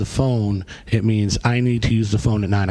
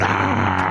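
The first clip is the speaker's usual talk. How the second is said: short mock performance scream; imitated scream; 4 semitones lower than usual. Inmate screaming unaware of who is behind him, mock scream. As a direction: throw in a brief screamed "ah".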